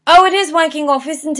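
excited realization. Real, not acted. Tries British slang aloud.

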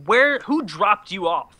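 mock-exasperated questioning; incredulous. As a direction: act baffled at how someone talks. Incredulous rant at accented speakers.

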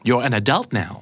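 "adult" stressed on its second syllable; American-style "adult", weight on -dult. Shown as a demonstration. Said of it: "U S ก็จะบอกว่า".

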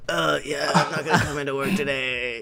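quiet, fake-sick croak. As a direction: put on a sick voice for the boss. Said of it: "make the voice".

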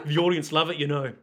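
lightly imitated Liverpool accent; Paul McCartney. Beatle talking about his audience, put-on Scouse accent. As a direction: stay in fake Scouse. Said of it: "Thank you, Paul McCartney".

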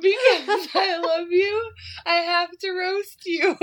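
laughing while talking. Real, not acted. Still laughing at the joke.

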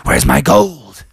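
mounting outrage, stretched out; angry bear. Acted. Bear finds his gold gone, angry bear voice. Bear asks again, enraged.

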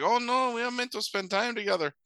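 high-pitched mock Hispanic woman's accent; caricatured Latina accent in a high voice; thick Hispanic accent. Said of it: "she has a thick accent".

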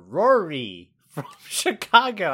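drawn-out, slightly goofy name reading; Pauly Shore-like. Real, not acted. Co-host stumbling over a listener's name, Pauly Shore-like. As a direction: stumble into a slow, stretched name. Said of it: "You said it like Pauly Shorewood".

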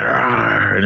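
playful drawn-out "rawr"; mock boogeyman roar. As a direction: pretend scare growl. Playing the boogeyman to scare Miklo.

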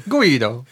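mock "Guido" with W for R; soft R. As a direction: say "Guido" high, R softened to W. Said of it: "how Jonathan Ross would say it".

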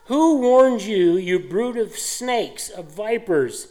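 slow, loud, high start then falling; John denouncing again. Retold or imitated. John the Baptist rebuking the religious leaders, slow and stern. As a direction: call them out slowly, prophet fury. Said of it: "that's what John is doing".

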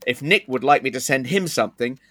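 ad read in a sponsor's voice; performed first-person advert read; Thor. Acted. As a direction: read out the sponsor's pitch with lively rises and falls. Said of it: "then it goes into Thor's voice".

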